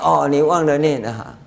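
amused, chuckling through the words; laughing reply. Retold or imitated. Master answering the forgetful student, laughing. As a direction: tease him with a laugh.

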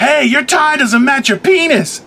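high, loud and slow; improvising a gag line for the camera crew; hyped-up joke line. Retold or imitated. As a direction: deliver it like a big reveal. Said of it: "Which I was like".

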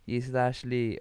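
put-on Lana's uncertain accent, drawn out slowly; put-on accent of unclear origin; mock foreign accent. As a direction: imitate her muddled foreign accent. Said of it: "don't even know what accent she has".

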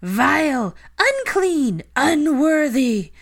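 high, loud shrieked insults, drawn out; furious ranting. A narrator's reading. Portrait of Missus Black keeps ranting, shrieking in rage. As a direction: screech each word in outrage. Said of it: "the ranting continued".

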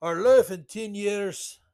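put-on half-hearted German accent, slow; lightly put-on, slow German accent; bad German accent. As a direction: attempt a stiff German accent and fail. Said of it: "I can't do a German accent very well".

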